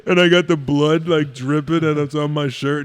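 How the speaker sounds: talking through a mouthful of gauze; words muffled by gauze in the mouth; mouth full of gauze. Shown as a demonstration. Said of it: "joking like this".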